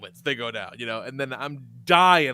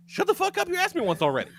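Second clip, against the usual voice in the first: mock yell at kid; faster than usual.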